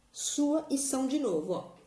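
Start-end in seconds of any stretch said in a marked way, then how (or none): none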